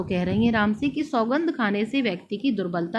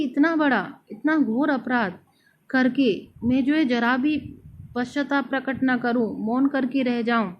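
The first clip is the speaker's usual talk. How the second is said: raised, insistent voice of remorse; Kaikeyi's anguish; 3 semitones higher than usual. Retold or imitated. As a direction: speak as the anguished queen. (Kaikeyi की ग्लानि, ऊँचे ज़ोरदार स्वर में)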